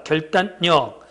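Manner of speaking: 결단력 said slowly as 결딴녁; standard pronunciation. Shown as a demonstration. Teacher answers the next question, slowly demonstrating 결딴녁. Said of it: "그 다음 말은 뭐 됩니까".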